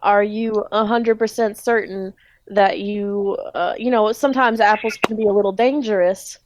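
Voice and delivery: hesitant, meaningful southern warning; Speed's southern accent. Acted. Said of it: "everyone in this grocery store have a southern accent".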